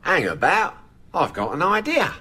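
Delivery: lightly done Cockney Michael Caine. Acted. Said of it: "Eric, why are you talking like that?".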